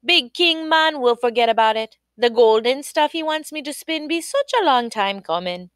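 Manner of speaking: comforting daughter. Acted. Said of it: "Queenie Kwashi said".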